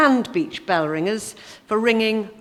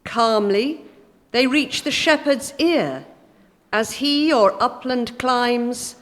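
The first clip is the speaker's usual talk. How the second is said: slow, measured poetry recital; a calm church reading of a pastoral poem. Acted. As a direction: read the verse gently and deliberately. Reads John Clare poem aloud.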